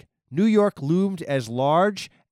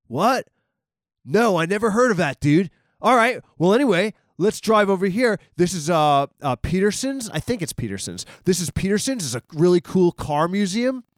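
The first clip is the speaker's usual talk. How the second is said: put-on higher, louder laid-back LA dude accent; 5 semitones higher, 4 dB louder than usual. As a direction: play the LA driver, higher and louder with a lazy LA accent. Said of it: "by his stereotypical accent".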